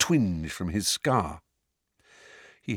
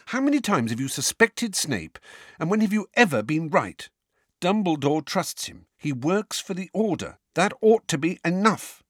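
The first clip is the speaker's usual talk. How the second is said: put-on angry girl voice; 8 semitones higher than usual. A narrator's reading. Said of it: "said Hermione angrily".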